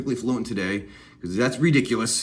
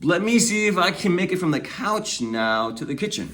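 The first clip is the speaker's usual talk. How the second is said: put-on playful toddler voice; 3 semitones higher than usual. A toddler falling on the way to the kitchen, light and playful. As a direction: play a toddler shrugging off falls. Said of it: "and they're like".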